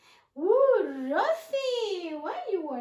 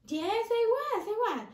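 higher little mouse puppet voice; Rosie the Mouse; 3 semitones higher than usual. Acted. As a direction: play a small, eager puppet mouse. Puppet mouse answers teacher.

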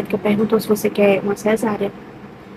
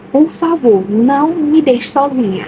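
higher, drawn-out pleading; retold plea; 4 semitones higher, slower than usual. Woman begs partner to stay for the birth, retold pleading. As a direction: plead not to be left alone.

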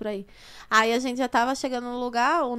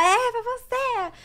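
teasing reply; 11 semitones higher, much slower than usual. Retold or imitated. Bianca answering the fan.

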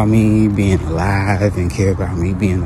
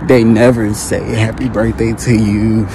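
louder, heated venting; getting it off her chest; 6 dB louder than usual. Real, not acted. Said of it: "I have to get this off my chest".

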